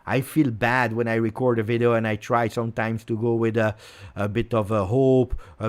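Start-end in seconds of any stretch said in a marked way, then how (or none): none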